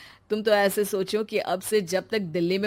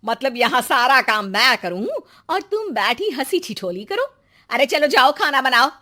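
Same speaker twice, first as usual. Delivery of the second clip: scolding; 4 semitones higher, 4 dB louder than usual. Acted. Mother-in-law scolds Preeti to work.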